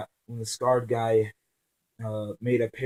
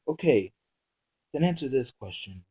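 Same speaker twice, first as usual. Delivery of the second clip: calm; 2 semitones higher than usual. Acted. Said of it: "And asked calmly".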